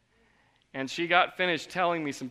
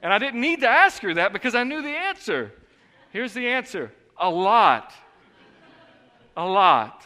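louder, higher, laughing admission; laughing confession; 7 semitones higher, 9 dB louder than usual. Real, not acted. Pastor admitting the truth to the church, laughing. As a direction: own up loudly through a laugh.

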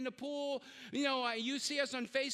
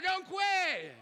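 louder shout; 4 semitones higher, 3 dB louder than usual. Real, not acted. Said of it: "do better".

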